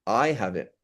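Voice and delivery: I leaned on, the rest falling; emphatic I, then drop away; stress on I. Shown as a demonstration. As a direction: put the contrast on I. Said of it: "there's intonation".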